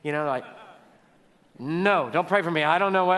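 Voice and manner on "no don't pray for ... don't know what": louder, lightly acted brush-off; mock alarmed refusal. Imitating someone scared off by a pastor's offer, mock alarm. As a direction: blurt it out as a mock-spooked refusal.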